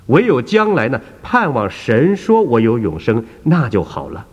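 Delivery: put-on angry old woman. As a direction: scold him for badgering you. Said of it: "这位妇人就很生气地说".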